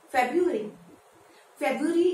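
"फेब्रुअरी" as FEB-yoo-ree, R dropped; wrong pronunciation. Shown as a demonstration. Teacher showing the common error, mispronounced without first R. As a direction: say "February" with yoo in place of roo. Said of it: "is the wrong pronunciation".

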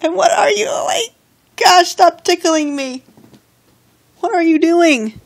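high squealing protest; being tickled. Real, not acted. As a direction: yelp while being tickled. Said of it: "She's tickling me".

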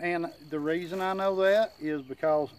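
talking round a chewing tobacco dip; dip in lip. Real, not acted. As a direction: mouth full of tobacco. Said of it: "excuse me".

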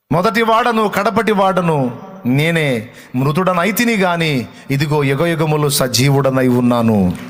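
slow, proclaiming voice of the Lord; solemn divine proclamation, lightly voiced. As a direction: declare it with weight. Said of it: "అన్న ప్రభు".

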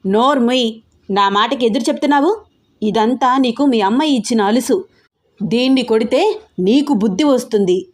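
father shouts down his pleading daughter; angry shouting father. Acted. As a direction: bark it at the daughter with fury. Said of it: "చాలా గట్టిగా అరుస్తున్నారు".

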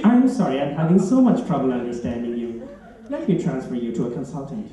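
measured robot apology, dropping low; automated phone system. Acted. Phone system transfers caller to a consultant, automated voice. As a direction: give up politely as an automated voice. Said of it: "an interactive voice recognition system".

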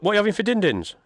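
put-on baby talk. Baby talk to kid about dinner.

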